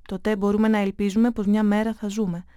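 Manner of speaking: a hint of a grave father, earnest and measured; lightly voiced father, turning serious; father explaining to his son, gently serious. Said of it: "Η φωνή του έγινε σοβαρή".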